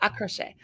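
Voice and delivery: "À crochet" again in French, quietly; French pronunciation. Shown as a demonstration. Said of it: "You have to say it like that 'cause it's French".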